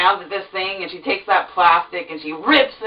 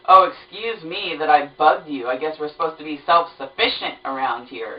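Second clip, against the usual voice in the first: sarcastic. Retold or imitated. Sarcastic jab at rude clerk.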